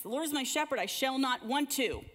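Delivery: put-on a light, sing-song child reciting, leaning on want to; little boy's version. Mother imitating her cousin's toddler reciting the psalm. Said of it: "in his little three-year-old head".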